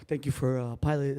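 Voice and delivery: low, subdued pilot sign-off; quiet, hesitant cockpit voice; pilot announcement. Retold or imitated. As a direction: lightly imitate a downbeat captain. Imitating the pilot's announcement after landing.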